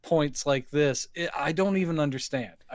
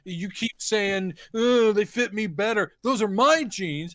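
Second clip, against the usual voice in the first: higher, whiny ex demanding her things back; mock petty ex; 4 semitones higher than usual. Ex-partner demanding belongings back, lightly whiny and higher. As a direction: play the bitter ex at the door.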